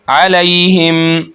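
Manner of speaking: अलैहिम drawn slow with the या soft and gentle; recited with soft leen. Shown as a demonstration. Tajweed teacher showing soft leen, slow and gentle. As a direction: glide softly through अलैहिम, no jolt. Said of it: "लीन बन रहा है".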